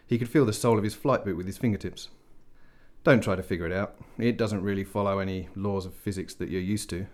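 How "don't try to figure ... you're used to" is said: almost bored. Acted. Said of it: "Death sounded almost bored".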